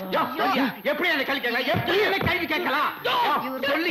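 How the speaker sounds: building anger. Acted. Angry patient demands how the doctor dares question him, rising. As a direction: escalate the challenge. Repeated challenge builds higher.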